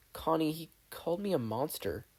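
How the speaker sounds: lightly voiced hurt confession; hurt boy. Steven telling Connie the insult, hurt.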